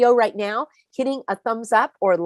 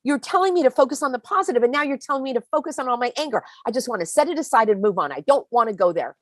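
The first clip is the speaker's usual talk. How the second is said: higher, fast, protesting viewer; objecting viewer; 4 semitones higher, faster than usual. Retold or imitated. Viewer protesting to Peggy, fast and higher. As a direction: play a viewer pushing back on the advice. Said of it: "And you're saying".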